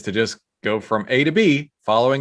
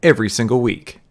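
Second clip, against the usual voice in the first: upbeat sponsor read, a little louder; 4 dB louder than usual. Acted. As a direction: sell it like a radio spot over music. Host reads sponsor ad.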